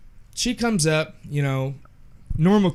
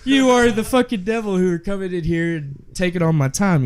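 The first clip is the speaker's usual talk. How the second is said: higher, louder exasperated rant; mock angry outburst; 5 semitones higher, 4 dB louder than usual. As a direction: vent at the customer in hammed-up anger. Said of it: "And I was like".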